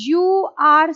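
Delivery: slow, deliberate teaching read; phrase by phrase, slowly; slow model sentence. Shown as a demonstration. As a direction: say it slowly for learners. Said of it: "अगर किसी की बात ना समझ आए".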